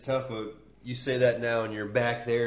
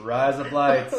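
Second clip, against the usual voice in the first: amused, louder try at an Australian accent; Australian accent attempt with a laugh; 3 semitones higher, 5 dB louder than usual. Shown as a demonstration. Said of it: "trying to say it in an Australian accent".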